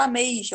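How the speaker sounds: "ameixa" with the I as its own syllable; separated vowels. Shown as a demonstration. Teacher shows what nobody says, "ameixa" with E and I apart. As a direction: split "ameixa" into a-me-I-xa. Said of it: "aí ficaria separado".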